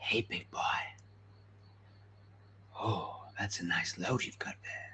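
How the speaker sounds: very hushed ASMR whisper. Asking a content creator whether ASMR means whispering like this; mock ASMR whisper. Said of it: "Are you whispering like".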